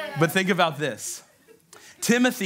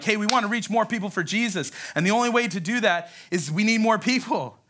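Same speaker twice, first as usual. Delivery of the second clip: higher-pitched recruiting pitch; acted rallying announcement; upbeat appeal; 4 semitones higher than usual. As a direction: pitch it eagerly to the congregation. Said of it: "we're up here and we're like".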